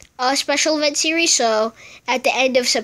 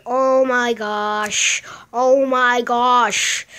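slow, louder oh my gosh; drawn-out dismay; 4 dB louder, much slower than usual. Real, not acted. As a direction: stretch it out, overwhelmed. Overwhelmed by enemies.

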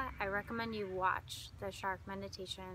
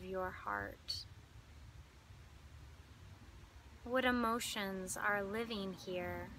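calm meditation guide with long pauses; unhurried, lingering phrases, leading listeners inward; guided meditation. Acted.

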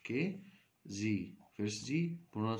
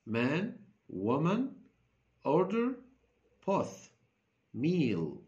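loud drill; 5 semitones higher, 5 dB louder, much slower than usual. Shown as a demonstration. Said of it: "teacher drilling workbook vocabulary".

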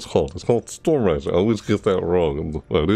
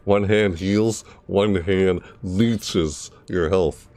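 Moira; slower than usual. Retold or imitated. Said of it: "I like playing Moira".

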